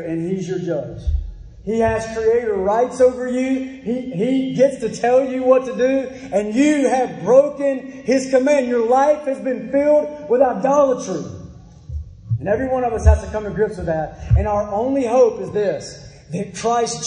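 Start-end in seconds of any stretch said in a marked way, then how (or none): 1.6-11.2 insistent pulpit delivery; emphatic preaching. Acted. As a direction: press the charge on the congregation. Presses charge on congregation.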